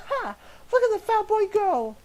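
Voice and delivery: high, loud cackling taunt; mocking laugh. Old woman laughing at the fleeing bully, cackling jeer. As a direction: cackle after the fleeing boy. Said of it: "brought out a single laugh".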